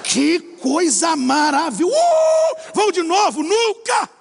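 hammed-up joy, then a flat refusal; mock delight. Preacher mocking his own relief after landing, shouting.

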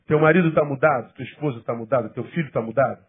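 ordinary talk

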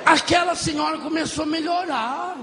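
ordinary delivery

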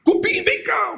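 high, sharp summons; calling out. Acted. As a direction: call the termite over. Calling termite.

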